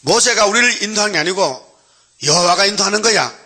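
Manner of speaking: high-pitched defiant pushback, lightly acted; rebellious retort, acted. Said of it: "패역한 자식들이".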